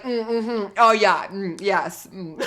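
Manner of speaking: mock eager agreeing murmurs; Sumit. Sumit agreeing with everything Sarper said, mock eager hums. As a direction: imitate someone hanging on every word. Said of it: "Sumit was like".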